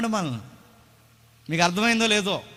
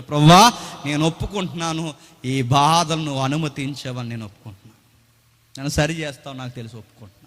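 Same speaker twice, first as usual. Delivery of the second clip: humble confession; 4 semitones lower, faster than usual. Retold or imitated. David's humble confession prayer.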